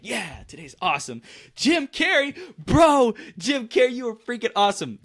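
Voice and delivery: very high, squealing fan voice; starstruck fanboy gush. Retold or imitated. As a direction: gush at Jim Carrey like a fanboy. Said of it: "I'm like".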